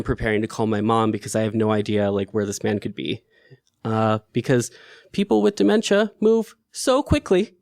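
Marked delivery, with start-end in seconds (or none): 5.1-7.5 rueful laugh. Real, not acted. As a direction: laugh off the grim fact. Rueful laugh at own remark.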